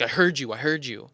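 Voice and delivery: mild mock impatience, retold; rude. Retelling the Speedway lady's retort over a Zyn, rude. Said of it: "like, rude with it".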